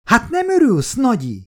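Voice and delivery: put-on a small girl tugging at grandma; eager little girl. Child asks grandma.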